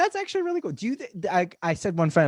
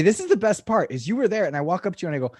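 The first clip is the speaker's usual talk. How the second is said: ordinary talk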